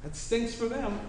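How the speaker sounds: a mock careless "that stinks for them"; dismissive shrug. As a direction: toss it away like you don't care. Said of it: "I don't just go".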